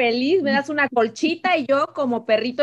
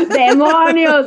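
demon voice; 2 semitones higher, 7 dB louder, much slower than usual. Acted. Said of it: "me encanta tu voz de demonios".

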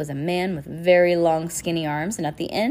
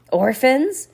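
a raised, scratchy call for the orphans; 8 semitones higher, 7 dB louder than usual. A narrator's reading. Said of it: "Count Olaf called out in a scratchy voice".

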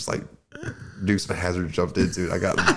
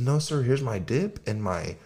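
mock drunk act; 7 semitones higher, 5 dB louder, slower than usual. Drunk lying to cop.

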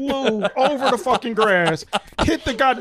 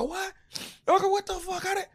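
retold shock; 9 semitones higher, 8 dB quieter than usual. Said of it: "And I go".

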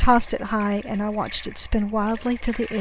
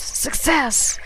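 higher-pitched burst of triumph; triumphant exclamation; 5 semitones higher than usual. A narrator's reading. Castaway hooks the life jacket at last, triumphant.

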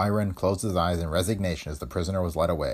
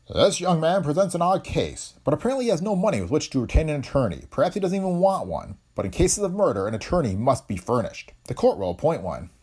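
a judge speaking from the bench, measured and formal; stern judge; 8 semitones higher than usual. A narrator's reading. Judge addressing the red-headed defendant, formal and stern. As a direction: hold court with raised pitch.

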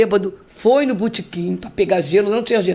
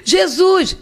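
retold scream; 7 semitones higher than usual. Retelling the truck accident, a high calling out. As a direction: cry out the name in panic.

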